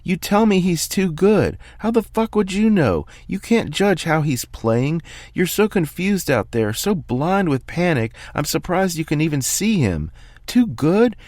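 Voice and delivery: a calm man finally coming apart, yelling at his player; screaming coach. Acted. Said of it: "then starts screaming".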